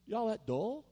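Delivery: rally them with mock disbelief; fed-up coach calling the team together; mock team talk. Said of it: "bring the team together ... and say".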